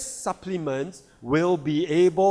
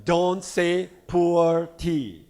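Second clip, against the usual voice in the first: slow advice. Retold or imitated. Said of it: "So I suggested to the company".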